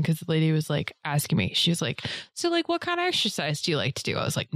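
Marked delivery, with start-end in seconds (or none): 2.3-4.2 high-pitched trainer voice; imitating the trainer. Retelling to friend how trainer asked, high imitation.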